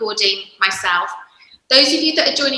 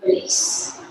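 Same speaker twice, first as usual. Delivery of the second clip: calm, unhurried instruction with long pauses; guided yoga. Real, not acted. Yoga teacher leading parents and babies through breathing, guided yoga. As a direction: guide them gently through each breath, phrase by phrase.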